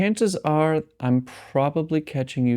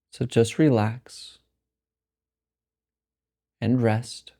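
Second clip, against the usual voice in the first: slow meditation voice with long pauses; guided meditation; 2 semitones lower than usual. Acted. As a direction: guide them slowly into rest, phrase by unhurried phrase. Leads a meditation.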